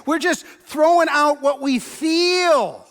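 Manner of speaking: impassioned. Real, not acted. Preaching on grief.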